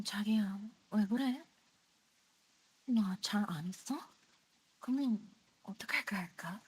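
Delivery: very soft, whispery mommy voice; hushed mommy voice, half whispered; mommy voice in Korean. Shown as a demonstration. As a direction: coo it softly, close and intimate. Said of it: "I can do mommy voice".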